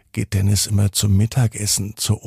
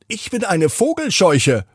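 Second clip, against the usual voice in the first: higher, strange scarecrow voice; 8 semitones higher than usual. A narrator's reading. Scarecrow greets Dennis in the garden, higher storybook voice. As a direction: introduce yourself as a friendly scarecrow. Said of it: "Die Stimme kennt er nicht".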